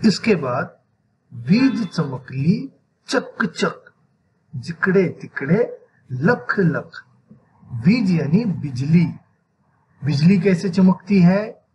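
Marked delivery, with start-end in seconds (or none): 1.3-7.0 put-on slow, spaced-out children's verse; poem recitation. Shown as a demonstration. Teacher reads the lightning verse to children, slow recitation. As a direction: stretch the lines, set the repeated words apart. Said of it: "इस नज़म को कैसे पढ़ा जाता है".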